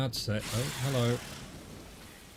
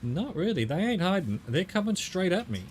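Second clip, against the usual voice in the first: excited indignation; 5 semitones higher than usual. Real, not acted. Indignant at charging spiders.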